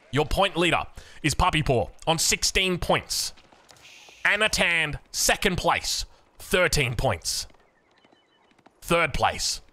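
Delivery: measured results read-out with pauses; deliberate scoreboard announcement; standings announcer. Acted. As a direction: announce the rankings, letting each one land. Reads out the standings.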